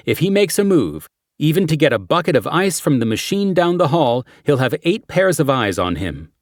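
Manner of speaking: brief the team like a cop; briefing detective voice. Acted. Character briefing in quote.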